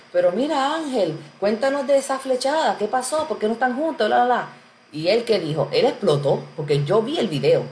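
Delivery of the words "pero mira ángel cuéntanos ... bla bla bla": higher, pestering mock viewer voice; nosy viewer. Host imitating fans pestering Ángel, high and mocking. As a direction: needle him like a pushy fan wanting gossip. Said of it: "Como que".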